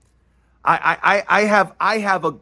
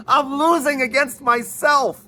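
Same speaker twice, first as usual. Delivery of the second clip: laughing; 7 semitones higher than usual. Real, not acted. Laughing at own joke.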